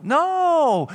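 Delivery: sharp shouted no; emphatic no. Real, not acted. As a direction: cut the example off hard. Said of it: "preacher breaks off the bad example".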